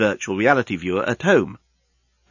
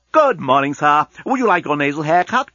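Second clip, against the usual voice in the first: lightly voiced servile robot attendant; a hint of a chirpy automated greeter; doorbot; 3 semitones higher, 3 dB louder than usual. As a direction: offer the service brightly, like a doorbot.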